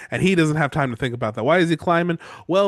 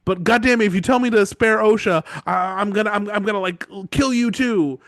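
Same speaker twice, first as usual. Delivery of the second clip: mock annoyed Theon; 6 semitones higher, 4 dB louder than usual. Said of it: "Theon's like".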